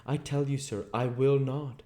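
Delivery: insist, voice rising. Acted. Bunting refusing his captor, voice rising in protest. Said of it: "his low voice rising".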